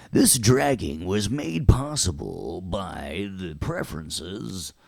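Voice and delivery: slow, swooping announcer read; mock sponsor announcement. Teacher answering his own question, mock announcer. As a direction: stretch it out like a grand sponsor credit.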